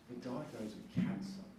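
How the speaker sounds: grave news. Retold or imitated.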